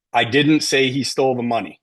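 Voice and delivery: evenly weighted words, no word singled out; no inflection. Shown as a demonstration. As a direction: state it with no emphasis on any word. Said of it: "with no voice inflection whatsoever".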